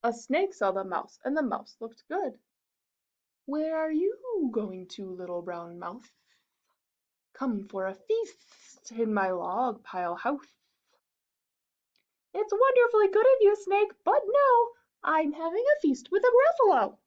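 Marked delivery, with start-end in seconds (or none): 3.4-10.6 slither the invitation; sly snake. Acted. Snake lures the mouse, slow and sly. 12.3-17.0 high, louder squeaky mouse voice; a bright little mouse, politely refusing. Acted. Mouse turns down the fox, high and squeaky.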